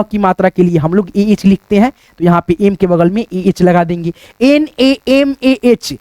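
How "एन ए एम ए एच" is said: very slow, letter by letter; slow classroom dictation; spelling it out. Shown as a demonstration. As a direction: dictate each letter so the class can write it. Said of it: "spelling out नमः letter by letter".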